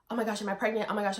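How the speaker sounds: quick, lightly panicky imitation; mock freaking out. Vlogger mimicking the panic she didn't have, mock freaking out. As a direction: act out a mild fluster. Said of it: "like, freaking out".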